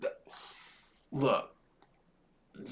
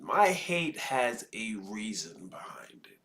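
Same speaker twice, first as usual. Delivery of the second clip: whispered aside; 4 semitones lower, 5 dB quieter than usual. Real, not acted. Quiet aside about his hate.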